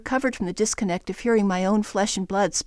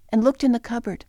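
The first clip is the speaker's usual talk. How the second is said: poem reading. Acted. Poet reads final poem.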